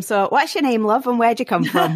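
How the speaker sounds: lightly attempted Liverpudlian accent, playful; a game-show host and singer. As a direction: have a rough go at a Scouse game-show host accent. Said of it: "I feel a bit Cilla Black".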